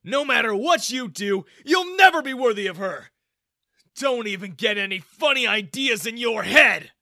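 loud, high threatening shout; angry threat. Acted. Father warns Ethan away from his daughter, angry shout. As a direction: warn him off, loud.

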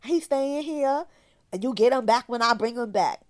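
high, taunting mock of the father's voice; sing-song gloating, pitched well up. The father refusing to return the son, high mocking taunt. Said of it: "He was like".

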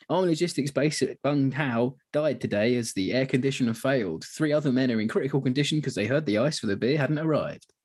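lightly voiced bulletin reader; mock news flash. Troops taking the piss out of the rear, mock news flash. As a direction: read it as a spoof news report. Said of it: "like, news flash thing".

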